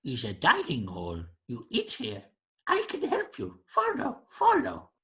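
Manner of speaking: creature voice climbing very high; helpful creature host. Acted. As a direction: coax along as a little alien. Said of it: "Maybe comes over to you and says".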